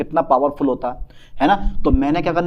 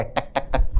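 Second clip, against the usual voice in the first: drip sounds; 5 semitones lower, 4 dB quieter, slower than usual. Shown as a demonstration. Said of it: "बूंदें डाल देनी है".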